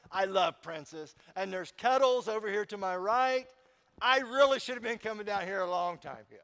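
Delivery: smart aleck. Pretend. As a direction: brag breezily, a touch mocking. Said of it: "a smart aleck about it".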